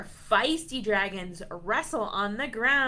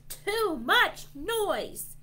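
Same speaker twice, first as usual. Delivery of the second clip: high, slow, punched-out holler; grumpy holler; 11 semitones higher, 4 dB louder, much slower than usual. A narrator's reading. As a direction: holler each word separately, grumpily. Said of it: "One grumpy dragon hollers".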